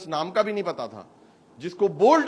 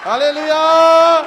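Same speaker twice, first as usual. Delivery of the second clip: long shouted hallelujah; 10 semitones higher, 14 dB louder, much slower than usual. Real, not acted. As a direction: hold hallelujah long and high, ringing out loud. (لمبا، اونچا اور زور دار hallelujah)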